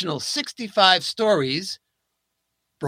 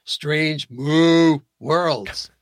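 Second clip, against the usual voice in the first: drawn-out title; much slower than usual. Acted. Punning show title, drawn out.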